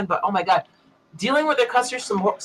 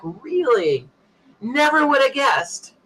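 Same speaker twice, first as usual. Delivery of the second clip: sarcastic; 6 semitones higher, much slower than usual. Retold or imitated. Sarcastic reply to the outage call.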